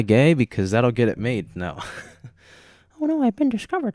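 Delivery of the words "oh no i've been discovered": squeaky mock panic. Mock caught reaction.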